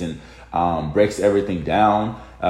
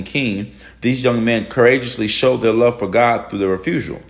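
devotional reading. Acted. Reads a devotional aloud.

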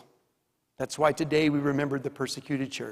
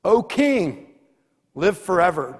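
Daniel answers; 2 semitones higher than usual. Acted. Daniel answers the king from the den, lightly called. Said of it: "And Daniel says".

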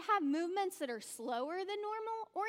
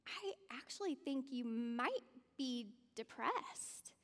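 softer, slower, caring words to a friend; quiet, careful concern for a buddy; gentle concern; 6 dB quieter, slower than usual. Acted. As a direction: break it to him gently. Gently telling friend he's depressed.

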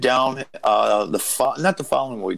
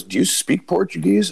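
lightly voiced excited older man, much higher, slowing at the end; mimicking an excited agent; 9 semitones higher than usual. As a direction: call out to the boss like an eager old agent. Agent questioning the young wrestler.

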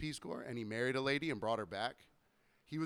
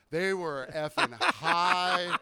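They were effing high, each word stretched slowly; slow emphatic; 5 semitones higher, 8 dB louder, much slower than usual. Real, not acted. Correcting himself for the recording, stressing effing high. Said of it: "Write it down".

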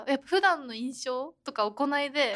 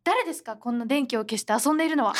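mock angry teacher; 3 dB louder than usual. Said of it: "みたいな感じで怒られたわけ".

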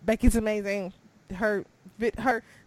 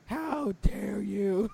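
a hint of theatrical indignation; mock outrage; 2 semitones higher, slower than usual. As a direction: pretend to be offended for the champion. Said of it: "I was like".

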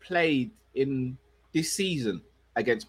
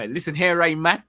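mock Bajan accent; 3 semitones higher, 4 dB louder than usual. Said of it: "could do that accent".

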